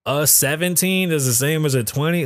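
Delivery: rising disbelieving question; incredulous echo. Real, not acted. Host questions the claim, incredulous rising echo. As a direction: repeat it like you can't believe it.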